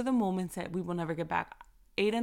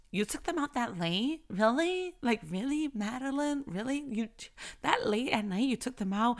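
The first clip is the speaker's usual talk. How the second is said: judgy critic; 4 semitones higher than usual. Retold or imitated. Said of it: "that spirit of comparison".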